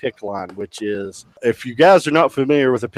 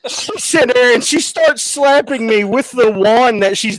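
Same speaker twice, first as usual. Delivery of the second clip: high, loud, laughing while telling; 10 semitones higher, 5 dB louder than usual. Real, not acted. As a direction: giggle through the words.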